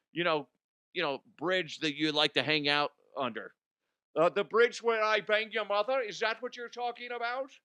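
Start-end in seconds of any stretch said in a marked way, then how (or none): 4.2-7.5 higher, teasing comeback voice; mock comeback. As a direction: toss back the taunt, higher.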